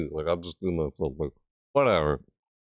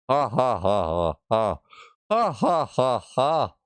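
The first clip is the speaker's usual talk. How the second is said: reading out a laugh; 3 semitones higher than usual. Pretend. Streamer acting out the written laugh, mock villain laugh. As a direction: read the ha-has as a hammy villain laugh. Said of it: "I added more than just three".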